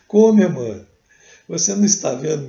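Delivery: anguished loud cry of despair; desperate outcry. Retold or imitated. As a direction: plead in loud anguish, near tears. Chico desperate, crying over brother. (grito desesperado e angustiado)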